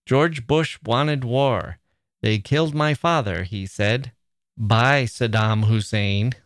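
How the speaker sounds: slow, weighty mock poem reading; mock-solemn haiku recital, slow. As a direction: read it like a pompous poem. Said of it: "they write something like".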